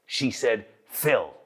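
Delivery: low, slow 'Phil' with a short i; deliberate correction, short-vowel 'Phil'; corrected vowel. Retold or imitated. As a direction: land slowly on 'Phil' with a short i, unlike 'feel'. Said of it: "She did not say Phil".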